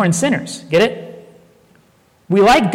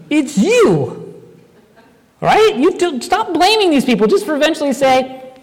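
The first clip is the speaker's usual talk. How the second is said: fervent call-out; 9 semitones higher than usual. Acted. Preacher calls out the congregation.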